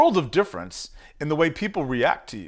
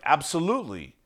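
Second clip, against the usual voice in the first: absolute confidence; 4 semitones lower, 4 dB quieter, faster than usual. Shown as a demonstration. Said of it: "in my language".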